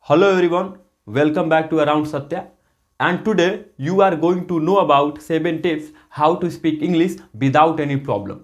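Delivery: slow, everyday Indian-accented English. Shown as a demonstration. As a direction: say it like a typical Indian speaker of English. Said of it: "India में तो ऐसे बोलेगा".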